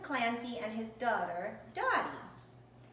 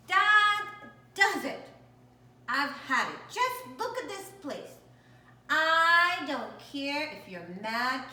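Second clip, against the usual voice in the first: exasperated scolding, high and loud at the start; scolding the cat; 3 semitones higher, 6 dB louder than usual. Acted. Owner fed up with the cat, exasperated scolding. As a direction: tell the messy kitty off.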